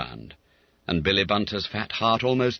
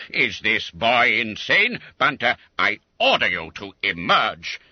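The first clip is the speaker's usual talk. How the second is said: louder, stern command; a master losing patience; exasperated order; 4 dB louder than usual. Acted. Master ordering boy out, loud exasperated.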